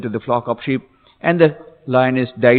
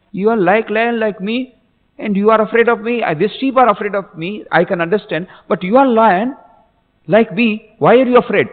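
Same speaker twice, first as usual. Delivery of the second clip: markedly higher-pitched, insistent storytelling lion; questioning big lion; 9 semitones higher than usual. Acted. Big lion questioning the fleeing small lion, insistent. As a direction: challenge the frightened cub in a raised pitch. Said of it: "Then the big lion caught hold of".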